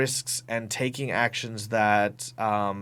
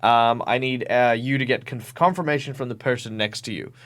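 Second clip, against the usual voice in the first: game master announcing; 2 semitones higher, 4 dB louder than usual. Retold or imitated. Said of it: "I've just said".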